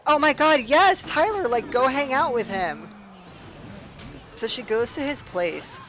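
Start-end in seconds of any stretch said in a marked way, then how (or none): 0.1-2.9 high, loud eager gushing; gullible gushing girlfriend. Retold or imitated. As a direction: play the clueless partner cheering her on. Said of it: "my gullible ass is like".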